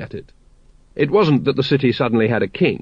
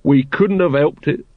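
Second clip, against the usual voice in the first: sulky; 3 semitones higher than usual. Acted. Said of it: "said Nobby sulkily".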